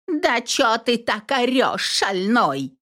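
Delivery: high, scolding village-granny shout; shouting back. A narrator's reading. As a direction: shout back at the noisy old man. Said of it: "закричала в ответ баба Надя".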